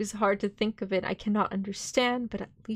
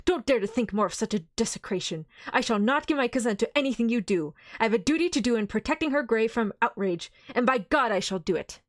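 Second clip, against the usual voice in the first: higher, louder outraged pleading; passionate anger; 6 semitones higher, 3 dB louder than usual. Acted. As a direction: protect her grave with fury. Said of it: "cried Arthur in a storm of passion".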